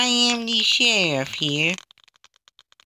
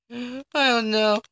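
out of breath. Real, not acted. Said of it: "I'm running out of breath right now".

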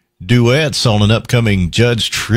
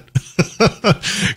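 airy laugh; 10 semitones higher than usual. Real, not acted. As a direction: laugh it off under your breath. Laughs after accent chat.

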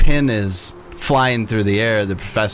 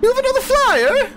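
much higher, shocked; startled pixie; 3 dB louder than usual. Acted. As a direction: squeak out disbelief like a jealous fairy.

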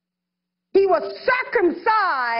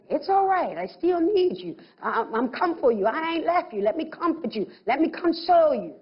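gentle comforting. Retold or imitated. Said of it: "he goes back to the Jews and says".

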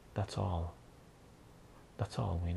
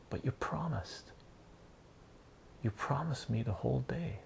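put-on higher-pitched upset child's protest; mock crying child; 4 semitones higher, 3 dB quieter than usual. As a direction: protest like a child about to cry. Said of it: "he's crying".

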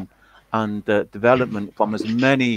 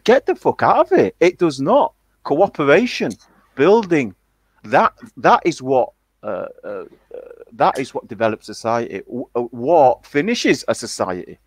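louder and higher, fired-up rebuttal; retold heated retort; 3 semitones higher, 4 dB louder than usual. Retelling his heated reply in a debate, loud and fired up. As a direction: hammer home the point like mid-argument.

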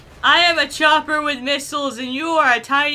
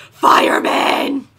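slow, stretched, louder shout of the word; calling out; 2 semitones higher, 7 dB louder, much slower than usual. Acted. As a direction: hail him across the street, laughing. Calling out at the fireman.

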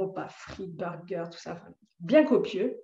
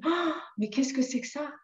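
stunned amazement; 5 semitones higher than usual. Retold or imitated. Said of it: "stupéfaite".

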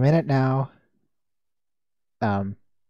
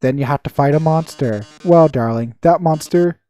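diva villain; 2 semitones lower than usual. Acted. Voicing diva villain Mettaton.

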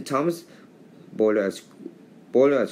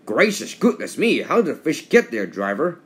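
amazed; 2 semitones higher than usual. Acted. Sir Topham Hatt amazed at fish.

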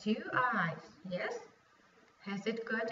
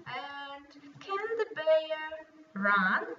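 slow, drawn-out question; reading to a toddler; 5 semitones higher, 3 dB louder, slower than usual. Shown as a demonstration. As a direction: ask it slowly like a kindergarten teacher. Teacher questioning a small child.

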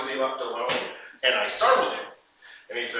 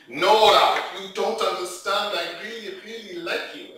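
higher, whiny imitated pleading; tipsy German plea; 5 semitones higher than usual. Drunk man tugs at her shirt, tipsy pleading. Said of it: "he was kind of drunk".

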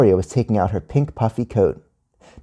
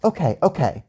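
higher, soft-edged teacher reply; gently giving in; placating; 6 semitones higher, 3 dB quieter than usual. A narrator's reading. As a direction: placate an upset child. Teacher placates screaming child.

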